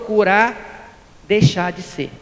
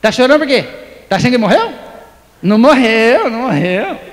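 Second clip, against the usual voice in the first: lecturing the mourner, louder near the end; a hammed-up know-it-all comforting; mock consoler pushing doctrine on a mourner; mock preachy consoler; 4 dB louder than usual. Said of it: "vou chegar lá e falar assim".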